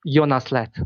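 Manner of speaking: "Jonas Latt" as Yo-nas Latt, with an open A; native name pronunciation. Shown as a demonstration. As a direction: say "Jonas Latt" the Swiss German way. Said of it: "my name is pronounced".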